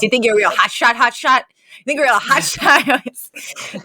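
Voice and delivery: lightly voiced menacing stepdad taunt; abusive stepdad. Retelling a movie stepdad taunting his son, mock menace. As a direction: sneer it like a bullying stepdad. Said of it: "the abusive stepdad, and he goes".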